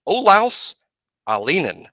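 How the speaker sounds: Olaus said as OH-lows, a rising first name, then Alinen said plainly; careful name pronunciation. Shown as a demonstration. Host reading the player's name for listeners, careful pronunciation. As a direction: spell the name out clearly so it is said right. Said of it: "we're saying that correctly".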